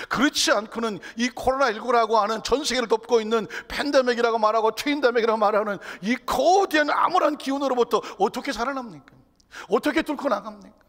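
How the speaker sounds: shouted, high-pitched sermon challenge; full-force preaching. Real, not acted. Preacher confronting the gloom of the pandemic, full-force preaching. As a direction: thunder the questions out to the congregation.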